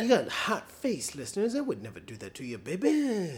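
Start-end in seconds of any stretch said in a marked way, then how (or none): 1.6-3.4 sultry whisper. Acted.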